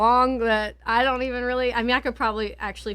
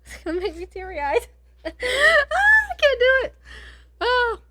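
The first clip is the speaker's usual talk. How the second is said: real tearful laugh breaking into crying, high and louder; choking up laughing; 13 semitones higher, 5 dB louder than usual. Real, not acted. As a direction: laugh through tears, unable to go on reading. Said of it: "I get so emotional these days".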